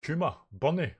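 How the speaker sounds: high, loud calls to companions; calling out. Acted. Crew member calls to companions, alarmed. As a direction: call each name out loudly.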